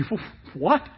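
mock double take; shocked reaction. Shown as a demonstration. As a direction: stammer out a stunned what. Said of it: "the reaction should be".

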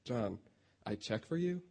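softly mocking quote, rising at the end; incredulous mimicry. Brother quoting his broken English back at him, incredulous. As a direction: echo it back as a disbelieving question. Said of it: "You know, like, really?".

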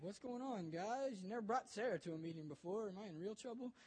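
lightly voiced joking teenager; kinda joking. Kid finding his youth pastor at home, half-joking. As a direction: tease lightly, pitch lifting on the opening question. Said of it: "he's kinda joking about it".

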